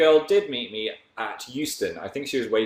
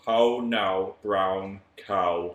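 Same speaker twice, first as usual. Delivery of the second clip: northern accent; much slower than usual. Shown as a demonstration. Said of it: "go to my northern roots".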